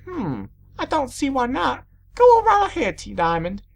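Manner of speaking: high, lilting permission; obliging teacher. A narrator's reading. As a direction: grant it cheerily in a high voice. Teacher grants pupil's request.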